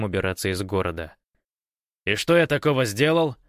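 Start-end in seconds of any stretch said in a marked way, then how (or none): 2.1-3.4 innocent tone. A narrator's reading. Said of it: "самым невинным тоном".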